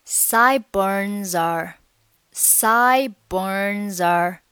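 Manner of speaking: slow "sideburns are" with the two words run together; linked pronunciation. Shown as a demonstration. Teacher showing learners linking, "sideburns are" slowly joined. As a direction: link "sideburns are" smoothly, no gap before "are". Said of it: "这里连读成".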